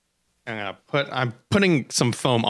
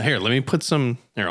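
ordinary talk

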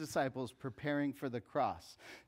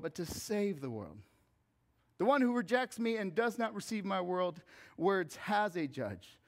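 scripture reading; 3 semitones higher than usual. Acted. Reads scripture aloud.

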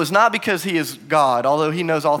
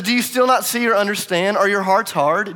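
raised, frustrated questioning; upset; 6 semitones higher, 4 dB louder than usual. Acted. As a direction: press the questions in exasperation. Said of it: "Jesus is upset".

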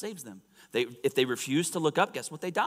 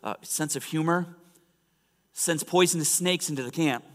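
raised, animated sermon storytelling; spirited preaching; 4 semitones higher, 5 dB louder than usual. Real, not acted. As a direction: tell the Bible story with force.

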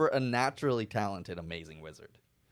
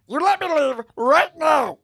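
loud, slow threatening ultimatum; loud threat; 9 dB louder, slower than usual. Acted. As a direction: menace it slowly, voice raised. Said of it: "I was like".

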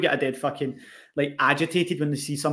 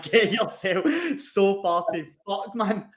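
put-on girlfriend's retort; 5 semitones higher, much slower than usual. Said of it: "She's like".

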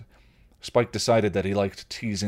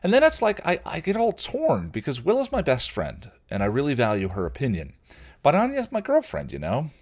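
put-on higher, louder, fretting young man; torn Xander; 8 semitones higher, 4 dB louder than usual. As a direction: spill out his dilemma, half whining. Xander torn between friends.

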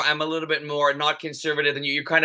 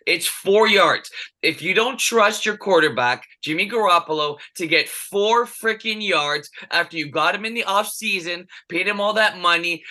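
frustrated rant; 2 semitones higher than usual. Real, not acted. Podcast host ranting to his co-host about a bad call, exasperated and emphatic. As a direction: vent it like a fed-up fan who can't believe the call. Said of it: "this gets me so, so frustrated".

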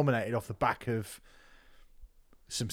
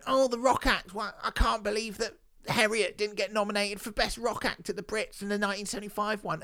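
mock snob; 6 semitones higher, 4 dB quieter than usual. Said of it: "We're going".

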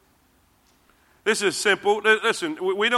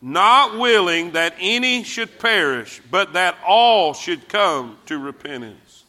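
slow group reading. Shown as a demonstration. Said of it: "Read it with me".

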